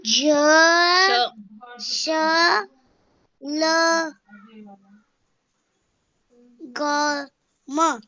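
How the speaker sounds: teacher prompts a student letter by letter. Shown as a demonstration. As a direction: sound out the letters to prompt the child. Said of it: "यही चार शब्द पढ़ने हैं आपको".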